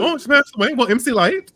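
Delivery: high-pitched talk-show host impression; all in one breath, very high; Wendy. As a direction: imitate a TV host running two remarks together high. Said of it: "She said that all in one breath".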